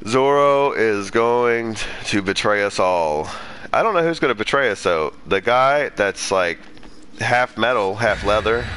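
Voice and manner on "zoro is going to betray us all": ominous. Real, not acted. Ominous prediction, slow.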